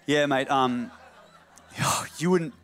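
hammed-up casual Aussie phone chat; exaggerated Australian accent on a phone call; overly Australian. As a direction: play a mate ringing up in broad Australian. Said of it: "I don't know why Joseph's overly Australian".

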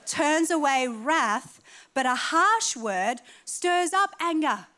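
each word drawn out, preached; slow scripture reading. Acted. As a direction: read the verse slow and weighty. Reads scripture slowly.

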